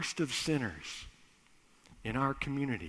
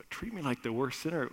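stunned echo; 5 dB quieter, faster than usual. Acted. Son echoes in disbelief.

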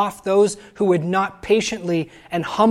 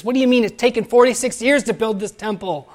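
raised, mildly incredulous retort; incredulous Pharisee; 4 semitones higher, 4 dB louder than usual. Retold or imitated. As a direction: challenge it in disbelief, a bit higher. Pharisee challenging Jesus in disbelief.

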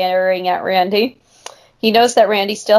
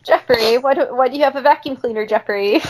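put-on fast kid voice; 4 semitones higher than usual.

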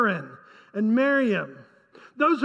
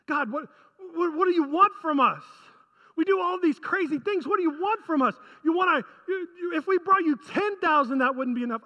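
exasperated, higher-pitched protest; almost mocking; 3 semitones higher than usual. Preacher voices Israel asking God what he wants, mocking. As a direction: throw up the question as if nothing could satisfy. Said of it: "sounds like almost mockery".

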